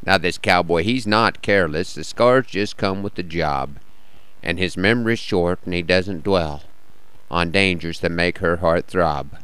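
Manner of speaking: measured cowboy poetry reading; cowboy poem recital. Acted.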